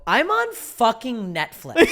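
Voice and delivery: slow, drawn-out and pleading; desperate plea. Retold or imitated. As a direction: drag it out in despair. Retold desperate line to crowd.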